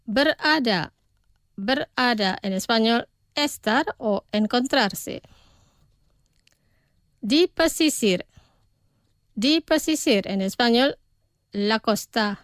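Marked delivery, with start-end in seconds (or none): 0.1-0.9 pronunciación despacio. Shown as a demonstration. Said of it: "Los pronunciaré despacio". 1.6-2.4 pronunciación despacio. Shown as a demonstration. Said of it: "Los pronunciaré despacio". 7.2-8.3 pronunciación despacio. Shown as a demonstration. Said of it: "Los pronunciaré despacio". 9.4-10.3 pronunciación despacio. Shown as a demonstration. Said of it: "Los pronunciaré despacio".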